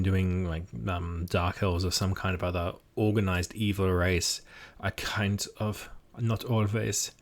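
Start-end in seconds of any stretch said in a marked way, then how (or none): 4.8-7.1 German accent. Shown as a demonstration. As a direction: slip into a playful German accent. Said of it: "various kinds of German sounding".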